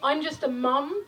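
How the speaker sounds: tender spoken-word recital; poem reading. Acted. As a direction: read it gently to the room. Reads second poem.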